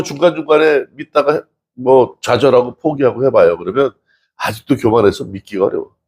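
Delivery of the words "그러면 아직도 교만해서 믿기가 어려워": ordinary talk, nothing marked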